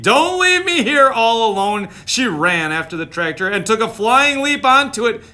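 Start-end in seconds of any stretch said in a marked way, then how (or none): 0.0-1.9 mock pleading sheep. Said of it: "cried Sheep".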